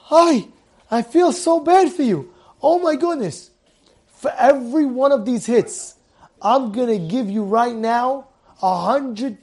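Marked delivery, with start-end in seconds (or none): 0.1-3.5 higher, pained cry of pity; mock-dismayed kind boss; acted sympathy. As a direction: wince for him, then commiserate. Boss sees the wounds, pities him.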